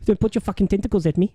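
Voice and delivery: put-on South African film voice; mock South African warning; South African accent. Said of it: "your entire South African accent".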